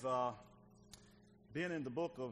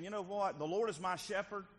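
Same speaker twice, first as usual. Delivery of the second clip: acted glad declaration; 5 semitones higher than usual. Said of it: "I think David is saying".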